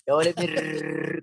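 "Ru-" with a hard rolled R. Retold or imitated. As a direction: roll the R in "Ru-" heavily. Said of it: "con la R marcadota".

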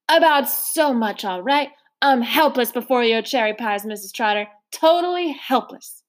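lightly voiced courtly old man; a hint of a polite elderly gentleman. Mister Randolph politely refusing seconds, lightly voiced old man.

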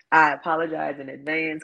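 sleepy, yawning delivery; words stretched by a yawn. Real, not acted. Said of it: "excuse my yawns".

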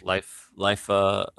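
stammering, halting movie-line impression; Jeff Goldblum. Doing the actor's famous line with co-host, stammering. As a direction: stumble over the words like the actor. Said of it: "Now you're selling it".

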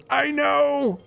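very high retold fan outburst; excited squeal. Gamer imitating an excited friend's reply, high squeal. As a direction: squeal back in shared excitement. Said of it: "I had a teen girl moment".

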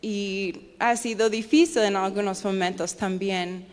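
Spanish with an American accent; an English speaker's Spanish, American accent. Real, not acted. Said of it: "mi español ha fallado un poco".

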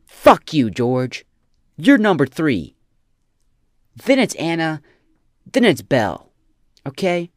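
put-on loud ranting dad telling off his kid; mock angry parent. Mock dad yelling at his son George, loud and ranting. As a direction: bark it at the kid like a fed-up father.

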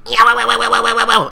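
loud, high whooping wows; loud mock cheering; mock excited shout. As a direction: whoop it up like a thrill ride. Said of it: "and he's like".

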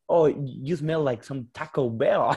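slow, sneering American Karen; drawn-out snooty insult. Acted. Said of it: "Súper racista la Karen".

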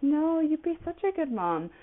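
high, sing-song imitation of people; mildly mocking gushy voice; mock gushing. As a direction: parrot them sweetly. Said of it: "people are like".

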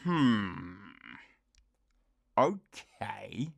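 doubtful hum, then a whispered okay; unconvinced, under the breath; sceptical whisper. Retold or imitated. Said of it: "You're like".

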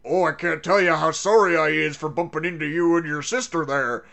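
a light hint of a rough pirate sailor; lightly voiced sailor mangling his grammar; Captain Sham mimicked in mild broken sailor talk; broken sailor English. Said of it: "the most broken sailor English you can imagine".

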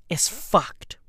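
whispered doom; hushed grim whisper. Acted. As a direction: drop to a whisper on it. Whispered punchline.

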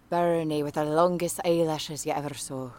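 soft Irish warm-up phrase; light Irish lilt, softly said; Irish accent. Shown as a demonstration. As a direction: slip quietly into an Irish accent. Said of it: "the Irish one is".

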